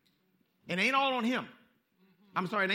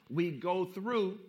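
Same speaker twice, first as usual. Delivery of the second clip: "through" stretched long, falling; slow stress on through; 3 semitones lower, much slower than usual. Shown as a demonstration. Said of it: "We go through to get to".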